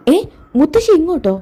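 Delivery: high-pitched startled question; startled disbelief. Acted. Told mother-in-law is coming, startled. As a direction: react as if caught off guard.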